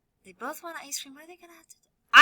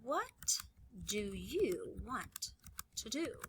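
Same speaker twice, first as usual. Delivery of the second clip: soft question; 8 dB quieter, much slower than usual. Acted. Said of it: "I'm gonna type".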